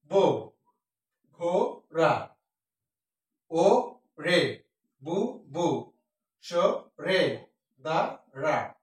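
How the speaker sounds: "পাগলা" and "ঘোড়া" stretched very slowly, each syllable drawn out. Shown as a demonstration. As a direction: drag out each syllable of the rhyme. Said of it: "অনেকক্ষণ ধরে উচ্চারণ করা". (অক্ষর টেনে টেনে ধীরে উচ্চারণ)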